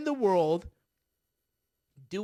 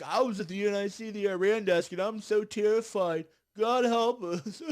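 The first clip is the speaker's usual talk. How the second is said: mock terrified staffer; 2 semitones higher, 4 dB louder than usual. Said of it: "people who were like".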